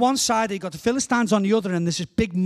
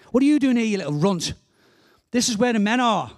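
raised pitch, sneering telling-off; scornful scolding; 3 semitones higher, faster than usual. Acted. David's brothers scold him at the battle lines, scornful. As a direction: put the little brother in his place. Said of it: "his brothers treat him terribly".

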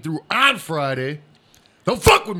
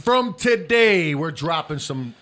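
dramatic slow teaser; 4 dB louder, much slower than usual. Pretend. Mock teaser of big announcement.

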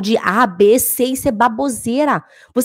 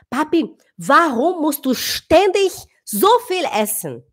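put-on slow, higher little girl's teasing; imitating daughter; 4 semitones higher, slower than usual. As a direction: copy the child's sly echo, slow. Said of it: "Aí ela falou assim".

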